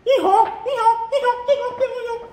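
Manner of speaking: playful repeated braying that fades at the end; donkey-like bray. Shown as a demonstration. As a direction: run of very high, short hee-haws. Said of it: "Like a donkey".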